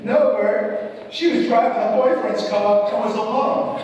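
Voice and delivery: lightly voiced Southern nanny; southern accent. Nanny calling the father, a light Southern accent. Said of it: "with her southern accent".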